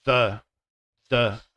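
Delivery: "The" with the tongue on the front teeth; th sound demo. Shown as a demonstration. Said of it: "putting your tongue underneath your front teeth".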